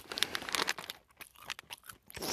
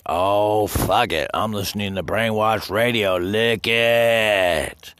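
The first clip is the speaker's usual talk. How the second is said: hammed-up official voice, higher and louder; louder mocking official; mock Chinese official; 5 semitones higher, 7 dB louder, slower than usual. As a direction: play a boss shouting it off. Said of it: "Hope you're telling your superiors".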